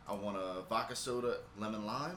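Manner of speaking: soft, low murmured rehearsal; rehearsing in head. Retold or imitated. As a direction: mouth the order to yourself. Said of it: "rehearsing what I'm about to say in my head".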